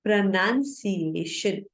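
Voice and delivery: pronunciation joined up, slowly, as pruh-nun-see-AY-shun; in one go. Shown as a demonstration. Teacher showing learners the whole word spoken in one go. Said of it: "if you are speaking in one go".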